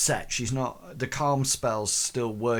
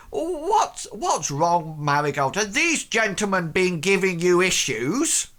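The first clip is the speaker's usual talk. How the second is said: raised Welsh lilt, fussing over her; concerned Welsh accent; 7 semitones higher than usual. Acted. Blacksmith embracing and patting Marigold, concerned Welsh lilt. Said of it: "embraces her and, and pats her".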